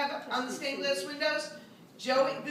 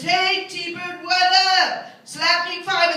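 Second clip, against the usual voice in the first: put-on louder, higher tough kid voice; swaggering first grader calling out; cocky kid greeting; 4 semitones higher, 8 dB louder, slower than usual. Kids greeting new teacher.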